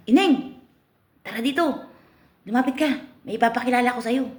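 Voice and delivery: high, sweet coaxing voice; pimp calling girl. Acted. The pimp coaxes the girl over in a high, coaxing voice. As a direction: coax her over, sing-song and high.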